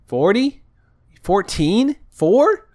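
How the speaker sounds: imitating the agent guessing numbers; mock mishearing agent. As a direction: parrot the number back wrong, bewildered. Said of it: "she was like".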